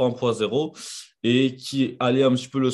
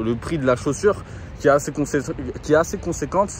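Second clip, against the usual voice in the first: winded after a run; breathless, catching his breath. Real, not acted. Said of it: "j'ai plus de souffle".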